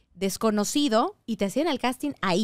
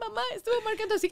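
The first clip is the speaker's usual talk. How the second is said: excited rush; 10 semitones higher, 4 dB quieter, much faster than usual. Retold or imitated. Telling mom the news.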